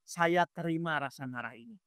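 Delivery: low surrender, fading soft; accepting prayer. Acted. Ustadz models accepting anger before Allah, humble and subdued. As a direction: give in to it before God, quietly. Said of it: "Ibu terima dulu".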